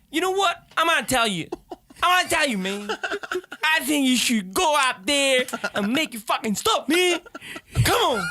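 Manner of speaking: very high-pitched Black American accent impression; hammed-up imitation of a Black American accent, way up high. Shown as a demonstration. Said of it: "the black accent".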